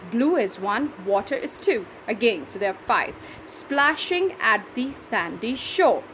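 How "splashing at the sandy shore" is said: Splashing at the sandy shore said slowly, every syllable marked; slow syllable reading. Shown as a demonstration. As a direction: read slowly so the count is clear. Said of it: "That's seven".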